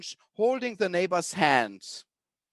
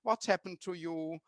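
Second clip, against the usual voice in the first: tender comfort; 3 dB quieter than usual. Retold or imitated. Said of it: "they give a handkerchief and say".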